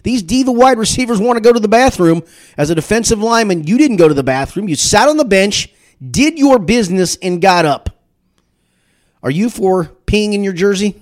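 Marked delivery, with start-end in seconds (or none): 0.0-7.9 higher, louder mock Booger rant; hammed-up grumpy old-school lineman voice; imitating Booger. Host mimics Booger's old-school rant, higher and louder. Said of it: "Booger says".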